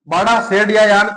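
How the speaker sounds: बाड़ा, शेड या यान said slowly, word by word; slow teaching repeat; slow spelled out. Shown as a demonstration.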